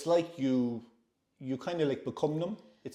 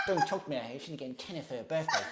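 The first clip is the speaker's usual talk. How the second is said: quick mimicked grumble; imitating a touchy mother; 4 dB quieter, faster than usual. Woman dismissing talk of her daughter, lightly mimicked. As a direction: imitate her dismissive remark, hurrying the end. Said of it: "it's the way she looked at me and said it".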